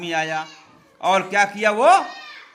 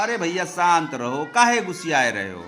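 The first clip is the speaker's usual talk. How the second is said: mildly soothing, in a lower pitch; lightly acted gentle coaxing, pitched down; affectionate pleading; 4 semitones lower, faster than usual. Farmer calming the angry tall man, affectionate. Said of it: "प्यार से बोलता है".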